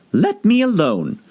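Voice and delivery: put-on high, slow girlish protest; annoyed Alice. Alice pushing the pigeon away, annoyed. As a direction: brush the bird off, annoyed.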